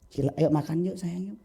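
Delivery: soft, sweet invitation; gentle coaxing. Acted. Parent inviting a child to eat, gently coaxing. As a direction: act out a parent coaxing kindly. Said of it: "nggak bisa lagi bahasa halus lagi".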